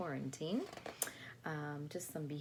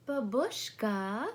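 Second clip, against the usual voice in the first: drawn-out pleading call, louder; a child's pleading call; 6 semitones higher, 7 dB louder, slower than usual. Acted. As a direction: call to grandma like an impatient little girl. Child character calling grandma.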